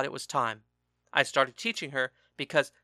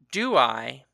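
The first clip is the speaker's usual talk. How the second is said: a louder, sharp retort; snapped; 6 dB louder than usual. A narrator's reading. Husband snapping back at his husband, angry. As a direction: snap it back, bitter.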